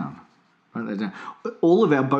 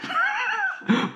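high squeaky burst of laughter. Real, not acted. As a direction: crack up. Laughing at own joke.

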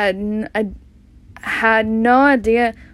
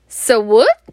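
louder sharp snap back; snapped; 5 dB louder than usual. Acted. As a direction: cut him off with a snappy retort. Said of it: "smashed Missus Dursley".

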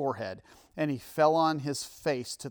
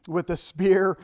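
mock Scottish accent; 4 semitones higher, 8 dB louder than usual. Echoes the bad Braveheart line.

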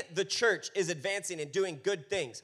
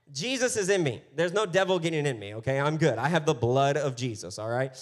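defiant; 6 dB louder than usual. Retold or imitated. Defiant retort about Halloween.

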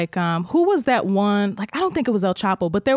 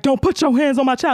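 higher, mock-stern warning; imitated protective dad; 6 semitones higher than usual. Dad warns Rosa off his child, mock stern. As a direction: act out a father warning off a bully.

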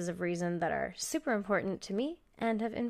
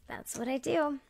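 laughing; 5 semitones higher, 4 dB quieter than usual. Real, not acted. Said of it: "and it's Canada Day".

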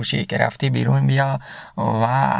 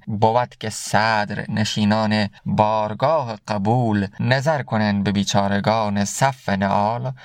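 slow, lower quoting of Saadi's couplet; slow verse recitation; 3 semitones lower, slower than usual. Acted. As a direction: read Saadi's line slowly and gravely. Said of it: "سعدی هم میگه که". (خواندن آرام بیت سعدی)

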